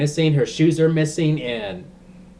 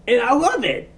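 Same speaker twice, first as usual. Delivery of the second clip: laughing with delight; giddy laugh; 10 semitones higher than usual. Real, not acted. Excited laugh about the twist.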